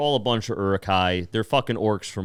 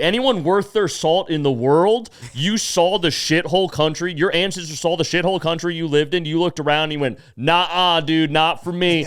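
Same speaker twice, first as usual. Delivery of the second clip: higher, louder hammed-up patriot rant; patriotic rant; 7 semitones higher, 5 dB louder than usual. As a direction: preach America like a blowhard.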